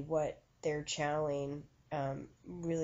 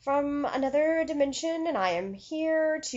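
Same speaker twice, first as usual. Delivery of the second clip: put-on spirit-medium voice, pitched way up and projected; funny channeling voice; 10 semitones higher, 7 dB louder than usual. Shown as a demonstration. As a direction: parody a medium channeling a being from another dimension. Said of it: "talk in that sort of voice suddenly".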